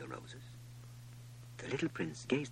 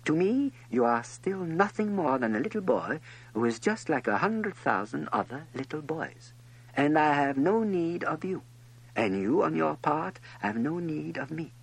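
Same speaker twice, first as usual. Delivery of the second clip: lightly voiced fox, higher pitched; earnest higher character voice, explaining with care; 7 semitones higher, 6 dB louder than usual. A narrator's reading. Fox explains taming to the little prince, earnest and insistent.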